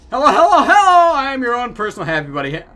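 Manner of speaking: loud, high, bubbly greeting that drops as it goes; hammed-up overjoyed toy mascot; happy buddy. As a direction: burst in with manic cheer. Voicing the game's happy buddy.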